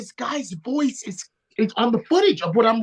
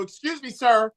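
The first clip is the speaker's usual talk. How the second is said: polite mic announcement, a bit raised; imagined announcement asking a heckler to stop; mock announcer voice; 2 semitones higher than usual. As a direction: play the stern ring announcer. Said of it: "get on the microphone and go".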